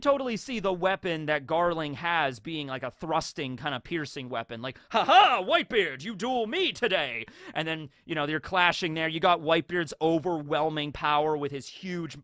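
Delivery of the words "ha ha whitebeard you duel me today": high gloating duelist taunt; cocky high-pitched challenge; taunting villain. Acted. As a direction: crow at your rival mid-duel. Villain taunts Whitebeard in duel.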